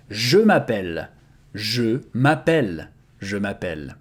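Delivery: je m'appelle with a full "je", every sound clear; careful full French. Shown as a demonstration. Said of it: "So this is the proper way of pronouncing it".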